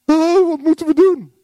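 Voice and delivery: high, loud dismayed wail; loud, high-pitched plea; alarmed crowd. Acted. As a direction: cry out in hammed-up panic. Acts out the convicted crowd.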